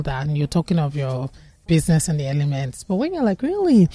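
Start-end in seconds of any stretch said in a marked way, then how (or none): 3.4-3.9 mock surprise. Wife reacting to business news.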